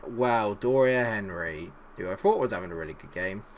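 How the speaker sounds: ordinary talk, nothing marked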